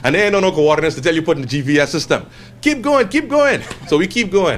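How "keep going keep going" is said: high and drawn-out, waving them onward; mimicking a local. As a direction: stretch each word like a lazy signpost. Locals' vague directions, mimicked.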